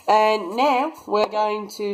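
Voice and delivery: put-on slow, drawn-out Aussie accent; lightly put-on Australian twang, stretched out. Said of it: "sorry about the Aussie accent".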